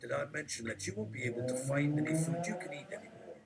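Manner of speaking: hushed conspiratorial whisper. Acted. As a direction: lean in and whisper it. Sudden aside, whispered.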